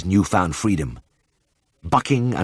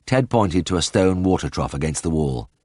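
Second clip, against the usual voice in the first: ordinary delivery, nothing marked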